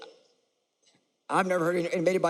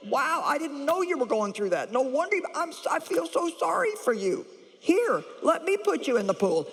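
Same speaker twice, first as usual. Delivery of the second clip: gushing mock sympathy, higher; mock pity; 7 semitones higher than usual. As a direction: coo over him with overdone pity. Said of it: "feeling sorry for the guy and saying".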